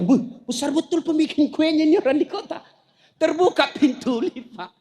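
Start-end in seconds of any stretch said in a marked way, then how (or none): 0.0-2.6 awed, laughing retelling of "besar betul"; a country man gaping at the city, half laughing; laughing mock amazement; amazed villager. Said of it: "dia bayangkan".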